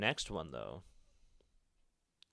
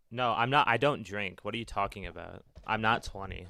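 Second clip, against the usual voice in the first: loud denial; 7 dB louder than usual. Real, not acted. Denies chat's drinking claim.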